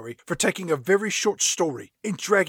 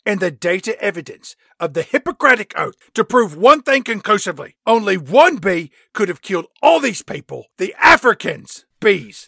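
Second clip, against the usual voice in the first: blustering; 5 dB louder than usual. Acted. Caine voiced, answering with bluster.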